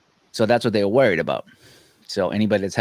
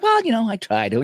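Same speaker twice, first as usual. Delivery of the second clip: laughing; 10 semitones higher than usual. Retold or imitated. Joking reply to the shaver.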